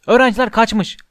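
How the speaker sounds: high, loud shriek of alarm; a loud, high raise-the-alarm cry. A narrator's reading. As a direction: scream the news to the castle. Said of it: "diye haykırdı Peeves".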